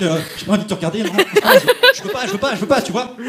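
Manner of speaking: mock scared pleading. Himself backing down scared.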